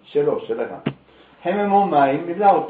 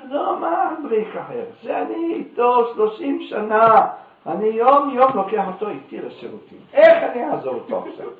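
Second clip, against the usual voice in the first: loud lament; 5 semitones higher, 3 dB louder than usual. Acted. Rabbi lamenting broken jug.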